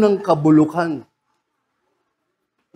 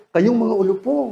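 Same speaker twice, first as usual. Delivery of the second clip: gentle rebuke; 3 semitones higher than usual. Retold or imitated. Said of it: "Ganun lang".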